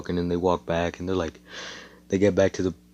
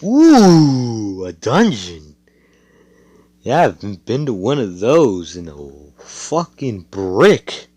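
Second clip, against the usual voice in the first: mock excited; 3 semitones higher, 8 dB louder, slower than usual. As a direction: gush like a kid promised an adventure. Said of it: "Nas is just like".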